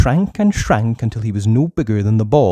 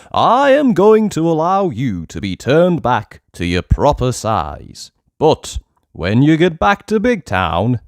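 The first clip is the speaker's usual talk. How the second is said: louder, higher commanding decree; stern king's warning; 3 semitones higher, 4 dB louder than usual. Acted. Goblin king warning Uppity, loud and commanding. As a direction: lay down the law from the throne.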